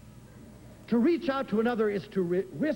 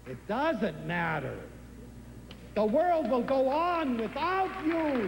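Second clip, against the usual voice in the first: calm reassurance; 3 semitones higher than usual. Shown as a demonstration. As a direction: let "It doesn't matter." settle gently and slowly. Thai calm answer contrasted.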